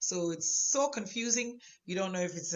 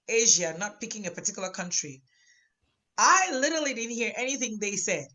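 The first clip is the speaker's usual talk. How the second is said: inner retort; 2 semitones higher than usual. Retold or imitated. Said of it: "you are asking yourself".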